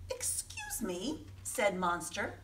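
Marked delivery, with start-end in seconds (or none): 0.1-1.3 soft, slow, polite request; very politely. Acted. Monster politely interrupting the campers, soft and slow. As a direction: ask gently and slowly. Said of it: "very politely".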